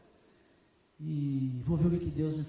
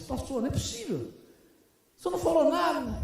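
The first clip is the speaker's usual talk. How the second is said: indignant protest; 8 semitones higher, 4 dB louder than usual. Retold or imitated. Young seminarist protests to pastor.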